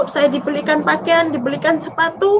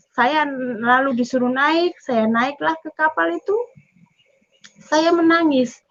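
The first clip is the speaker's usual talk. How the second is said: ordinary talk, nothing marked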